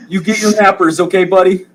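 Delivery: high cooing father; tender dad. Acted. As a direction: tuck your son into bed. GM plays the father.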